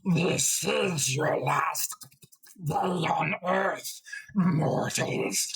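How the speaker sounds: very slow, high, echoing bug monster; insectoid monster voice. Shown as a demonstration. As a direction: drag each word out like a giant burrowing insect. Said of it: "I imagine it would be something like this".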